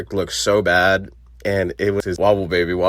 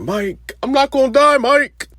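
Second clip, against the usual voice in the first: high, loud, giddy cry of invincibility; excited high yell; 5 dB louder than usual. Retold or imitated. Marcus shouting to Mike on the hospital roof, high excited yell. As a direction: shriek it like you can't be killed.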